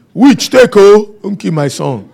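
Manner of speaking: high, loud startled mother; lightly voiced worried mother; mock mother's cry. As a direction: exclaim like an alarmed mother. Mother's exclamation in local idiom.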